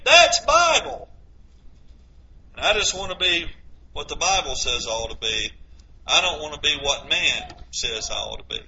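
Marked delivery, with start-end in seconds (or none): 2.6-8.6 much softer, lower, sinking to a whisper; hushed confession. Real, not acted. Preacher confides his own wish to the congregation, hushed to a whisper. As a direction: drop to a near whisper and say it privately.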